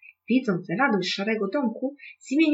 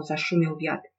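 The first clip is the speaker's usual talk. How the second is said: ordinary delivery, nothing marked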